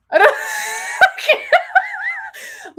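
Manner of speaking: failing at an accent, breaking into high laughter; laughing attempt. Real, not acted. Trying a Russian accent from advice, collapsing into laughter. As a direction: give up mid-try and laugh it off. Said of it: "I will never be a voice actor".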